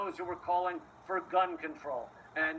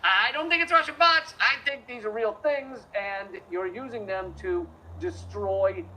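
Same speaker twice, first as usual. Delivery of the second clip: retold protest; 3 semitones higher than usual. Retelling own earlier protest.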